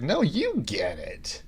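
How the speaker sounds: breathy whisper, no voice. Retold or imitated. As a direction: whisper it back flatly. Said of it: "Colin Robinson is like".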